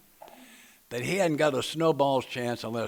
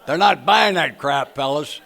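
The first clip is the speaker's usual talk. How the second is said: slow and much louder through a laugh; real laughing tease to the fellas; 3 semitones higher, 12 dB louder, slower than usual. Real, not acted. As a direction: push it out over the laughter. Teasing the men, audience laughing.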